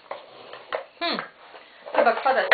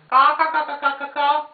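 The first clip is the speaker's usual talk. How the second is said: crow cawing; 4 dB louder, faster than usual. Acted. Imitating birds for child.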